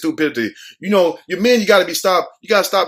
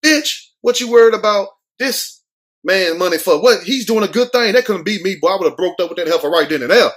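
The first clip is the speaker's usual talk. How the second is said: telling off the woman; 3 semitones higher than usual. Pretend. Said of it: "and said".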